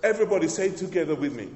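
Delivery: loud, fast call to the congregation; rally the room to say it; preacher rousing the church to repeat. Acted. Calling congregation to respond.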